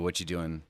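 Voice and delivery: "What you doing" slurred into one word; run-together words. Shown as a demonstration. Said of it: "entire sentence in one word".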